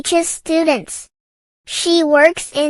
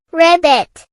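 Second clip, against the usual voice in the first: a light, playful croak of ribbit; mock frog ribbit; 4 dB louder than usual. Quiz host giving children a hint, lightly croaking like a frog. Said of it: "It says".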